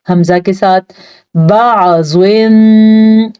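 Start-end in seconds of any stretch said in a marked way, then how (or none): 1.4-3.3 बाजुन slow with a clear throat ain. Shown as a demonstration. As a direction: stretch बाजुन, voicing the ain. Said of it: "आइन को वाज़ा करके पढ़ना है". (बाजुन में आइन साफ़)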